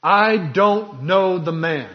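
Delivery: slow, heavy, emphatic denial; passionate denial. Acted. Peter denying Jesus in the courtyard, emphatic. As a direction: deny him with force, word by word. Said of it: "he denies with cursing and swearing".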